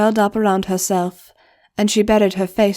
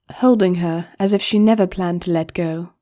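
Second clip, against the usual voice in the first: ordinary delivery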